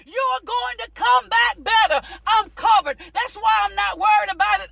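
driving, emphatic sermon delivery; fervent preaching. Real, not acted. Preacher encouraging people in a storm, fervent preaching. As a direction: preach it with rolling conviction.

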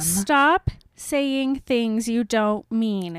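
slow, emphatic telling-off; exasperated scolding. Real, not acted. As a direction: scold slowly, landing hard on each word. Scolding a book character.

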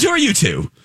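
lightly imitated haughty villainess, pitched high; a touch of sassy character voice; sassy Cruella de Vil. Villainess questions the two fans, mildly sassy. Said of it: "she was so sassy".

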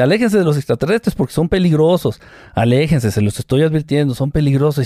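even, mechanical robot voice. Retold or imitated. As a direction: speak like a speech synthesizer. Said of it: "con su voz de robot".

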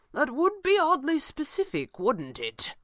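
wry quip, high then dropping; quipping. A narrator's reading. Stranger answering Red Panda's spell remark, quipping. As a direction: start high, land the tag question drily. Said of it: "the stranger quipped".

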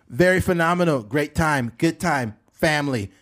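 choppy bullet-point boasting; Donald Trump. Acted. President talking in bullet points, Trump impression. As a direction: brag in short separate bursts. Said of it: "Donald Trump s-, talks in, like, bullet points".

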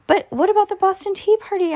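put-on high, eager girl's voice; high eager kid voice; Judy asking. A narrator's reading. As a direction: ask it like a keen little girl. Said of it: "asked Judy".

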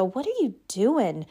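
incredulous scoffing, rising high on the hula hoop jab; mock disbelief at a friend's new hobby; mocking naysayer. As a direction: sneer like a doubting friend. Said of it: "you've had those people go".

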